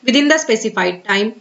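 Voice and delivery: very slow, careful reading of an official notice. Acted. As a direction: read the advisory word by word. Continues reading the advisory. (धीमे, सावधानी से सरकारी सूचना पढ़ना)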